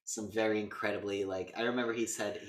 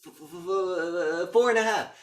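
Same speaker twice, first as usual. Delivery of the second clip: stammering mock panic; 7 semitones higher, 7 dB louder than usual. Stuttering count in a duel.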